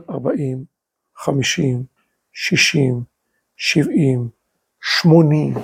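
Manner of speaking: low, deliberate count with pauses between numbers; measured counting of years. Acted. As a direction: let each decade drop low and hang. Counting off years passing without a child.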